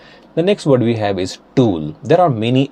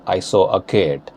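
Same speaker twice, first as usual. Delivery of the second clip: Indian-accented "cat", closer vowel and hard t; 2 semitones lower than usual. Shown as a demonstration. Teacher repeating the example sentence in Indian accent. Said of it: "Changing them into Indian accent".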